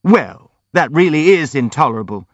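outraged cry. A narrator's reading. Visitors leap up at the prince's remark, crying out. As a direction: cry out in protest. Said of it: "came the cry from his visitors".

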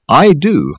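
high, airy assurance. A narrator's reading. Dirk claiming he already knows, airy. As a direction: toss it off airily. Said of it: "said Dirk airily".

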